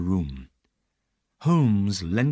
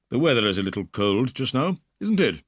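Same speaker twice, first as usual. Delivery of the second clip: polite; 3 semitones higher, 3 dB louder, faster than usual. Acted. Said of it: "he said politely".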